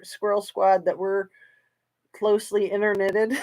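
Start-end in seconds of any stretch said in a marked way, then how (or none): 2.1-3.4 "interknitted" said through a laugh; playful laughing question; laughing tease. Real, not acted. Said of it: "teasing the chat with her word".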